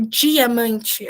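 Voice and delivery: "diamante" opening with a strong "dji" sound; Portuguese palatal d. Shown as a demonstration. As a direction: say "diamante" the Brazilian way, d like English j. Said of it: "a gente fala como se fosse um D J I".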